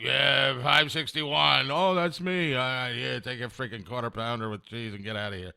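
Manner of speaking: mock a worker who hates the job; disgruntled fast-food worker. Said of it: "if you're not, like, loving your life".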